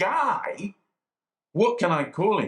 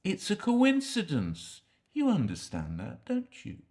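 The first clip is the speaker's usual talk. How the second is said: hushed pleading; 6 dB quieter than usual. Acted. Quiet insistent pleading to visitor.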